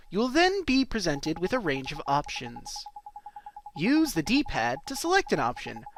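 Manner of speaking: measured, sing-song instruction read; tutorial read. Acted. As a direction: read it out like a game's help screen.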